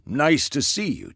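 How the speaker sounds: mock a missing pleasantry; lightly put-on polite hello; mimicked greeting. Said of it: "She teleports in, not even a".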